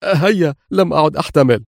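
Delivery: can't wait a second longer; eager cry. Acted. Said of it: "هاتفا في لهفة". (هتاف متلهف)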